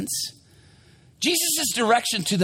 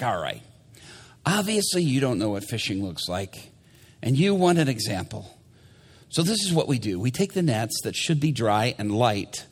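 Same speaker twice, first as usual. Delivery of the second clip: low, grudging demonstration; put-upon Peter; 8 semitones lower than usual. Acted. Peter showing Jesus how fishing works, grudging. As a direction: explain it low, with strained patience. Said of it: "he's like".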